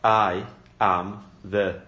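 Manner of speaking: slow, weighty "I am the."; each word of "I am the." laid down slowly and firmly; emphatic claim. Shown as a demonstration. Preacher stressing the certainty of Jesus' words, slow and firm. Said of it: "I is personally".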